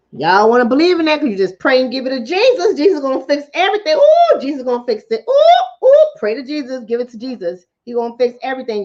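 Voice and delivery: lightly hammed-up believer, whooping on the oohs; mock church fervor. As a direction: mimic excited praise with bursts of "ooh". Mocking prayer-will-fix-it believers.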